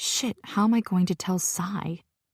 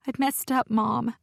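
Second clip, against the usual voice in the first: higher, tearful confession with a sniff; sniffling; 5 semitones higher than usual. Acted. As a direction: own up through sniffles. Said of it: "sniffing into the phone".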